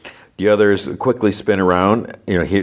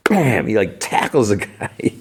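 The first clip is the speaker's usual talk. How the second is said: punchy, high sound-effect word; dramatic impact; 3 semitones higher than usual. Retold or imitated. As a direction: hit it high, like a sudden tackle. Dramatizing a sudden tackle.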